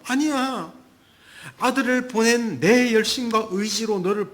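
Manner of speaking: God answering a worried believer, lightly voiced. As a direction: insist with fatherly fervor. Pastor voices God reassuring.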